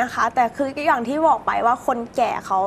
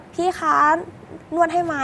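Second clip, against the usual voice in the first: sweet, higher coaxing offer; honeyed voice; 5 semitones higher than usual. Shown as a demonstration. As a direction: sweeten it up like a flirt. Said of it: "ก็อย่างเช่นแบบ".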